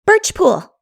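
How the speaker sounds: put-on high, quick girl's answer; brisk girlish reply; prompt suggestion. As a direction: fire off the name promptly. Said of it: "suggested Diana promptly".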